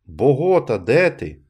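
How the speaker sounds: loud searching call. A narrator's reading. Blind villager searching for Nunez, calling loudly. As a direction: call out where are you, loud.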